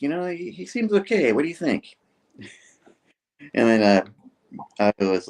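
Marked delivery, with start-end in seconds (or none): 0.0-2.0 quoting Peter. Retold or imitated. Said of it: "Peter's all like".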